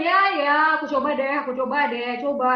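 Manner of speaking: grudging, half-hearted promise; reluctant whiny. Retold or imitated. Reactive person shrugging off a task, grudging. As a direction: sigh it out like you won't really try. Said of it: "Orang reaktif bilang".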